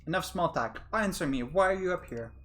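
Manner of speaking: stern demand. Acted. A girl demands answers from the Professor. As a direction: cut him off firmly.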